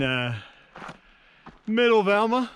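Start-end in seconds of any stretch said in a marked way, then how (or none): 1.7-2.5 puffing from the uphill climb; winded, catching breath between words. Real, not acted. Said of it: "Whew, sorry, I'm out of breath".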